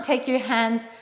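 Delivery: light, accidental British accent; a touch of put-on British English. Real, not acted. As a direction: slip briefly into a British accent. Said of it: "did that in a British accent".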